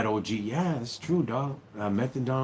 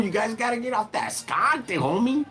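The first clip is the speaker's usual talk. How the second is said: high, loud mock scolding; scolding retort; 13 semitones higher, 5 dB louder than usual. Scolding youngsters hooked on phones, high loud yell. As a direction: yell it at the kids glued to their phones. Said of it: "I'm like".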